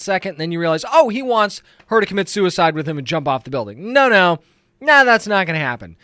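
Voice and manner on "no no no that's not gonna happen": mock protest. Protesting the villain's suicide plan.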